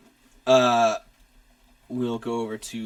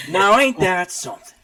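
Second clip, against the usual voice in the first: louder, higher hammed-up Southern exclamation; over-the-top country accent; Southern drawl; 7 semitones higher, 8 dB louder than usual. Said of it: "I'm gonna keep doing it".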